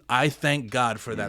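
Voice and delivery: measured and earnest, in an everyday pitch; mean every word of the thanks; sincere, literal. Shown as a demonstration. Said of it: "Like, literally, it's not like I say it flippantly".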